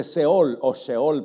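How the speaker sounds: Seol with a plain S, then Sheol with a sh sound. Shown as a demonstration. Preacher teaching the Hebrew word Sheol, contrasting pronunciations. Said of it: "porque es una S con una H".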